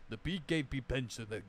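lightly hammed Russian accent on the gun name. Shown as a demonstration. Gamer doing a Russian accent for the viewers, playful. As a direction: say pension egg in a thick mock Russian accent. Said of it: "love saying it in a Russian ac-, accent".

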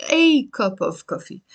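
"a" said as a full AY; stressed "a", then cup of coffee. Shown as a demonstration. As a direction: lean on the article "a". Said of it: "if I wanna say the cup".

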